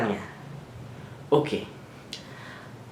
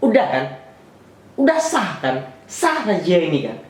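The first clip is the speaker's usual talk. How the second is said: higher dismissive mock challenge; mocking cop; 4 semitones higher than usual. Officer brushing the driver off, smug higher mock voice. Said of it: "polisinya bilang".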